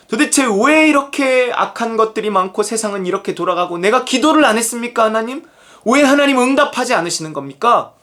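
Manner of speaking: acted-out protest in prayer, lightly indignant; 항의하는 하박국. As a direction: mildly imitate a frustrated prophet questioning God. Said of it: "이러고 있는 거예요". (하나님께 따지는 말투 흉내)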